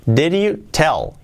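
slow, deliberate teaching take; each word laid out slowly for learners; slow model. Shown as a demonstration. Teacher slowing the phrase back down for students. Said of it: "Dicho rápido".

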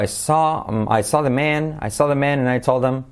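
MAN short, close to "men"; said quickly. Shown as a demonstration. Teacher showing the vowel in quick speech, said quickly. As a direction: run it together in connected speech. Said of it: "pero dicho rápido".

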